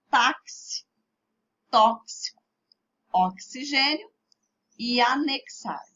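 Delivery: "Táxi, tóxico, oxigênio e anexar" with X as KS; word by word, make each X in "Táxi, tóxico, oxigênio e anexar" a clear KS. Shown as a demonstration. Teacher asks for attention, models "Táxi, tóxico, oxigênio e anexar" with X as KS. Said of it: "X com som de K S".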